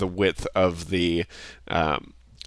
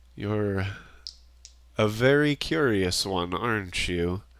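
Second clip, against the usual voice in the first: amused creature voice with a chuckle running through; 3 dB quieter than usual. Narrator voices a voice entering the player's mind, chuckling voice. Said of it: "kind of chuckles and it's like".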